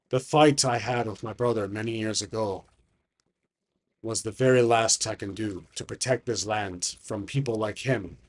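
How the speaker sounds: put-on subdued, weary old dragon; dying dragon. Dragon confessing he is near death, subdued and weary.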